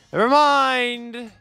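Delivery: loud, slow groan of giving up; exasperated never mind. Real, not acted. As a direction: throw it away in exasperation. Repeats it, exasperated.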